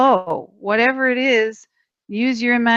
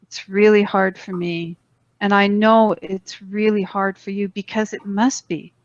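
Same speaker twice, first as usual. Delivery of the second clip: sincere apology; 2 semitones lower than usual. Shown as a demonstration. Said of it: "the most powerful one for me".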